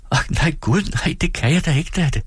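høj, undselig pigestemme; Dora afviser. Acted. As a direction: vrid dig genert ud af det. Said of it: "sagde Dora". (ung kone, høj og forlegen)

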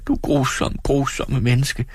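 høj, fortvivlet klage. Acted. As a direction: jamr dig over fornuften. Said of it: "og sagde". (Dora klager fortvivlet til sin mand)

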